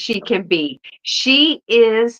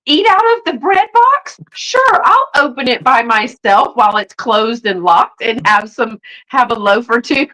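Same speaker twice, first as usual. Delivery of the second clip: gleeful greedy kitten; 3 semitones higher, 4 dB louder than usual. Acted. Kitten helps herself to bread, gleefully eager. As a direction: play an overeager little food thief. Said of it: "She's like".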